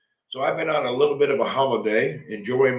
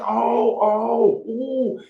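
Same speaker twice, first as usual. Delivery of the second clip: higher, louder mock oohs; imitating over-exaggerating; 9 semitones higher, 3 dB louder, much slower than usual. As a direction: overdo the phone reactions. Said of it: "they'll be going".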